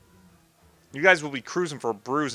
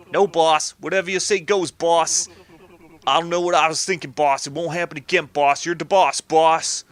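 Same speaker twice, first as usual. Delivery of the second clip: grovelling cartoon goon, hitting each boss; hurried yes-man gangster; cowed henchmen; 2 semitones higher, 4 dB louder than usual. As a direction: backtrack eagerly to please the boss. Voices cowed henchmen backtracking.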